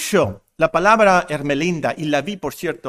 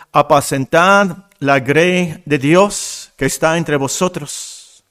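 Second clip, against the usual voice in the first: scripture reading. Acted. Reads Peter's exhortation aloud.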